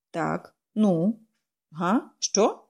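mumbled, distracted grunts; mumbling. A narrator's reading. The stranger only half hearing the girl, mumbling. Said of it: "промимрив він".

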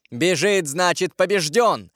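mildly exultant queen mother; exclaiming. A narrator's reading. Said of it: "воскликнула королева-мать". (воскликнуть)

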